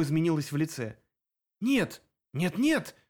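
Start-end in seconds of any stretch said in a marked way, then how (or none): 1.6-3.0 protest, climbing to a cry. A narrator's reading. Greta protests to Sep, rising cry. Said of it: "запротестовала она".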